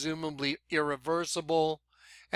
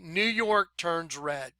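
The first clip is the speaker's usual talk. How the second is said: slowing down; 4 dB quieter, slower than usual. Real, not acted. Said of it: "Let me slow down".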